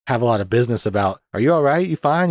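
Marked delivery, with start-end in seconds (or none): 1.3-2.3 higher, louder worried check-in; imitated urgent concern. Cop checks on partner who was nearly shot, imitated urgent concern. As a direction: act out checking on a shaken partner.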